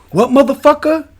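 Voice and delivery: high, loud mock threat; hammed-up furious bar owner; imitating an angry owner. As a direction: bark it like a huge bar owner squaring up. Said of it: "And then you hear him go".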